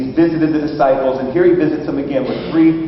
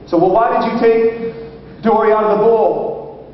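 put-on high, slow question to a child; coaxing father; 4 semitones higher, slower than usual. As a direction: imitate a dad patiently probing. Father probes daughter.

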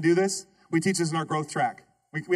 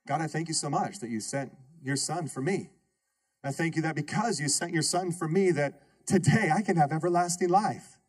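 prayer demo; 2 semitones lower than usual. Shown as a demonstration. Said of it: "How do I pray that? Well".

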